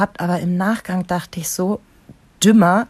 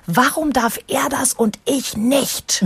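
high, drawn-out indignant whine; mock-furious child, every word stretched out; imitated angry child; 6 semitones higher, much slower than usual. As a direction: play a little kid protesting unfair treatment. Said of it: "der Kleine wütend am Abendbrotstisch".

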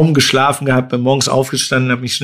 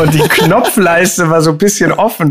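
laughing; 4 semitones higher than usual. Real, not acted. Embarrassing story punchline.

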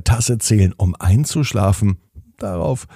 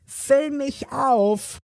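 very high, slow, insistent cup voice; demanding squawking cup; 4 dB quieter, much slower than usual. A narrator's reading. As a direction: demand it like a pushy little cup. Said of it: "Die Tasse schien relativ fordernd".

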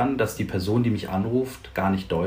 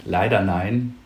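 laughing. Real, not acted. Laughing at the answer.

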